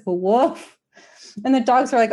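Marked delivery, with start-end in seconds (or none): 0.0-0.8 deadpan woof. Retold or imitated. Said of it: "He literally just says".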